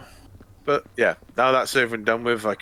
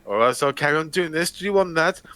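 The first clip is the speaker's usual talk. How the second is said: higher, teasing threat; Brian Blessed voice; 6 semitones higher than usual. Retold or imitated. Blessed threatening Peter in the headlock, teasing. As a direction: menace him playfully. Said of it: "He goes".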